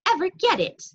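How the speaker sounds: loud, high amazed question; high, astonished outburst; excited shout. A narrator's reading. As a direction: exclaim it loudly to mother. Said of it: "shouted Martin".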